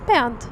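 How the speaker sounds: Bernd said the German way, short vowel like "band", ending in t; German pronunciation. Shown as a demonstration. Teaching a streamer the German name, German pronunciation. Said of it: "The German pronunciation".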